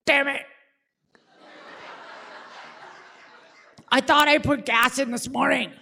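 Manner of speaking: laughing it off lightly; dad chuckling over his mistake; sheepish laugh. Retold or imitated. Dad shrugs off empty tank.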